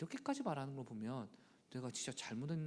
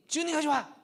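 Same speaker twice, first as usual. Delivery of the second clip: mock childish revenge; 13 semitones higher, 10 dB louder than usual. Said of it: "여섯 번 복수했는데".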